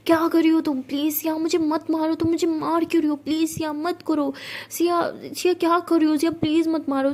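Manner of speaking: high, loud fake wailing; faked crying plea. Sara faking tears while being slapped, high and loud. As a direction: ham up being the victim. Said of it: "रोने की acting कर रही".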